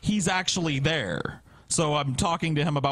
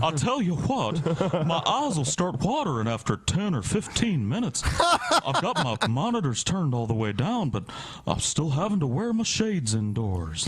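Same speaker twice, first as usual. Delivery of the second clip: Hank Hill. Retold or imitated. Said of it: "I sound like Hank Hill".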